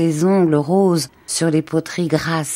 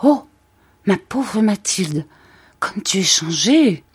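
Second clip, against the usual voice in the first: mild surprised cry; 3 semitones higher than usual. Acted. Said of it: "Son amie poussa un cri".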